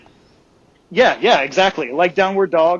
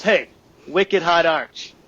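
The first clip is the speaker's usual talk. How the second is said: slow, drawn-out imitated Boston accent; slower than usual. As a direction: retell a buddy's put-on Boston accent, slowly. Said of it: "in your best Boston accent".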